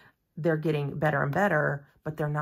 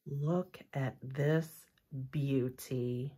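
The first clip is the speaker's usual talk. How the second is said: hushed awe; 3 semitones lower, 6 dB quieter, much slower than usual. Real, not acted. Awed reveal of pink e-file.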